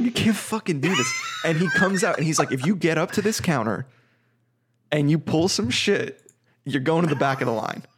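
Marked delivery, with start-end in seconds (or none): 0.0-1.1 hammed-up angry clerk shouting; mock furious shout. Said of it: "everyone's screaming". 2.5-7.8 lightly voiced fed-up clerk laying down the law; mild mock rant at the counter; imitated angry clerk. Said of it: "everyone's screaming".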